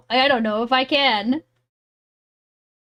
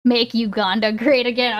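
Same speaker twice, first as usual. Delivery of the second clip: laughing through it. Real, not acted. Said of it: "the first thing my brain thought".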